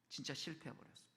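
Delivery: 낮고 작게 말끝을 떨구며; '진짜'를 힘 빼고 조용히; 가라앉은 탄식. Real, not acted. 실패를 안타깝게 두 번 되풀이. (낮게 가라앉힌 목소리로)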